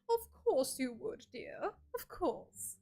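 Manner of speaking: haughty, slow, drawn-out know-it-all voice; uppity know-it-all. Pretend. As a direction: play a smug know-it-all, looking down on them. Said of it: "so much of an uppity know-it-all".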